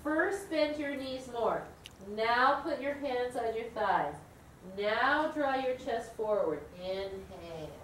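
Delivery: slow, drawn-out teacher cues; slow cueing. Shown as a demonstration. Yoga teacher cueing a dizzy student, slow and calm. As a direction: guide a student up in stages, slowly. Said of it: "I'll do the, like, four steps".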